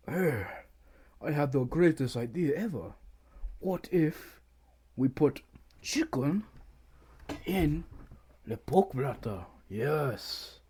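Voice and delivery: a bad mock French accent, over-sold; horrible French accent. To his co-host, mocking French chefs in a bad French accent. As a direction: ham up a clumsy French accent, mocking the chef. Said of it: "That was a horrible French a-, accent".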